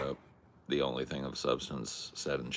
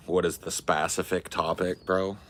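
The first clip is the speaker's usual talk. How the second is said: louder, pushing hard at chat; exasperated demand; 3 semitones higher, 5 dB louder than usual. Real, not acted. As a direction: demand it, fed up and loud.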